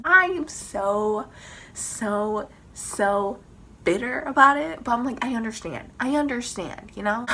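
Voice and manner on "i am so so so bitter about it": drawn-out emotional build; building outburst. Real, not acted. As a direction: build up to bitter.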